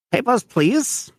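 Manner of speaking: high, slow, put-on German guard voice. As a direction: bark it like a stiff checkpoint guard.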